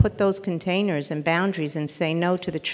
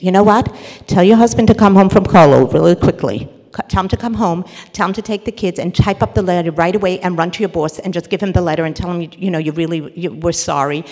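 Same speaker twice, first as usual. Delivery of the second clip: loud, pushy solutions; bossy fixer; 6 dB louder, faster than usual. Retold or imitated. Friend pushing fixes at the upset woman, loud and bossy. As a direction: push solutions at her. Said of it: "Okay, solutions".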